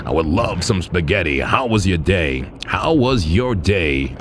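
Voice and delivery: slow, smooth mock sweet talk to his girlfriend. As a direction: lay on the charm slowly, half joking. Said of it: "I talk like this all the time to my girlfriend".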